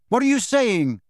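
high, loud call into the echoing room; very loudly. A narrator's reading. Harry calling loudly toward the whispering veil. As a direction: shout it so it echoes off stone. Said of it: "he said very loudly".

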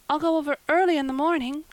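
high, loud, hurried offer; eager. A narrator's reading. Anne bargaining to put off the errand, eager. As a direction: rush it out eagerly. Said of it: "said Anne eagerly".

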